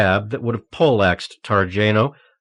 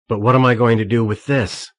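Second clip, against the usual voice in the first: mock-dumb question, a touch louder; acting dumb; 4 dB louder than usual. A narrator's reading. Targeno feigning confusion to the guard, mock-dumb. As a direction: play dumb to lure him closer. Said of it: "as dumbly as he could muster".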